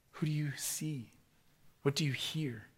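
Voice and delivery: soft, caring questions; Jesus softly asking his accusers with compassion. Acted. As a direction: gently plead with them to listen. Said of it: "with compassion".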